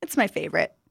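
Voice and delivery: lightly voiced eager young woman. Student explains avocado toast.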